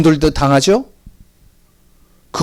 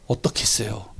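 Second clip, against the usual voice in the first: whisper; 8 semitones lower, 11 dB quieter than usual. Acted. Rhetorical question to congregation.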